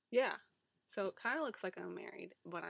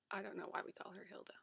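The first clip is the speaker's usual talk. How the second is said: whisper; 5 dB quieter, faster than usual. Real, not acted. Whispered aside.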